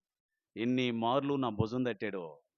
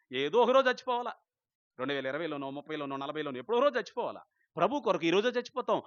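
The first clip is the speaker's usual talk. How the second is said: much higher and louder fiery preaching; preaching at full force; 4 semitones higher, 5 dB louder, faster than usual. Acted. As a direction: challenge the congregation at the top of your voice.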